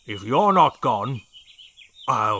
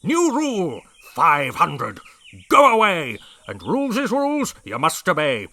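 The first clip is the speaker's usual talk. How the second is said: yelling; 8 dB louder than usual. A narrator's reading. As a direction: yell the rhyme at the pests. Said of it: "he yelled at the termites".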